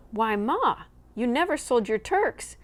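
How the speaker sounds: high, loud astonished cry. Acted. Boy amazed his mother brought turkeys home, astonished. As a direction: blurt it out in amazement. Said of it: "open-mouthed with astonishment".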